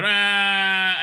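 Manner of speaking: mock scream. Retelling the characters' fight, mock scream. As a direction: imitate people screaming at each other. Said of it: "they scream at each other".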